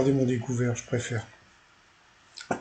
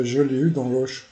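joking Portuguese sh on "l'Oche"; Portuguese accent; 4 dB louder than usual. Acted. Commentator turning the pun on himself, light mock Portuguese accent. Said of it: "dit-il avec l'accent portugais".

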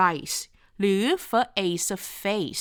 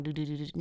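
rapid repeated buzzing syllables; quick stutter of buzzing sound; imitated vibration; 3 semitones lower, 8 dB quieter than usual. Shown as a demonstration. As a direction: imitate a throat vibrating, "duh-duh-duh". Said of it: "มันจะมีการสั่นดืดๆๆๆ".

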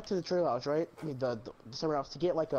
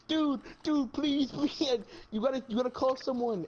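high-pitched imitated begging; mock pleading; 6 semitones higher than usual. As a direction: beg for help in a raised voice. Acting out friend begging for help.

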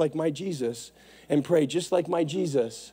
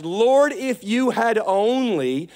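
mock Martha; 6 semitones higher, 3 dB louder, much slower than usual. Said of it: "are you willing to move past".

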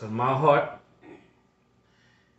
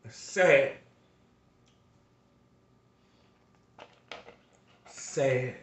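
sad; 5 dB quieter, much slower than usual. Real, not acted. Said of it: "I get a little emotional".

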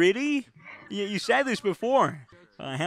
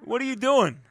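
demanding apology; 4 semitones higher, 5 dB louder than usual. Acted.

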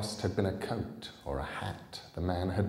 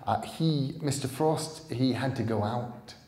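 put-on higher, halting young girl; girl covering for the absent man; hesitant girl fibbing; 6 semitones higher, 3 dB louder than usual. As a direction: stumble over the excuse. Girl lying nervously.

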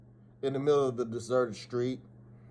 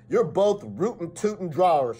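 excited shout; 4 semitones higher, 3 dB louder than usual. Acted. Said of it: "shouted Barbara Austin".

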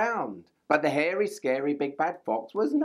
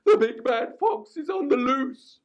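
higher honking goose voice; goose's warning; 10 semitones higher than usual. A narrator's reading. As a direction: warn them like a flustered goose. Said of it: "cried Goose".

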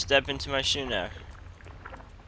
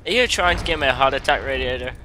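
startled scolding; 5 dB louder than usual. Real, not acted. Scolding radiator after scare.

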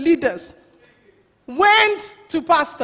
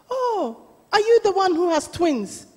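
higher-pitched retold surprise; surprised old auntie; 4 semitones higher than usual. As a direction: voice an auntie's curious question, pitched up. Old auntie questions the new wife.

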